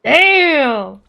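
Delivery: loud, sudden exclamation of surprise; surprised swear. Real, not acted. Gamer startled by a play, loud swear. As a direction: blurt it out, caught off guard. Player reacts to game moment.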